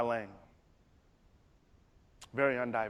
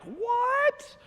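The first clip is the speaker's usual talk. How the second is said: startled what; 4 dB louder than usual. Retold or imitated. His startled reply to bullies.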